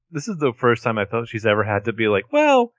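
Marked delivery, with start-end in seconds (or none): 2.3-2.7 haughty dismissive. Retold or imitated. Mocking Melissa's haughty dodge.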